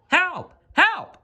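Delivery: very high, frightened cries for help; boy dangling in the air crying out for help; panicked shout. A narrator's reading. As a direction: yelp for help like a scared child. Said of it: "shouted the little boy".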